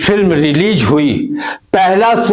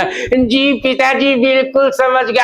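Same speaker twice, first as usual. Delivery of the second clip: higher, bright obedient son reply; eager son; 5 semitones higher than usual. Acted. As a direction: answer dad eagerly. Son answering father eagerly.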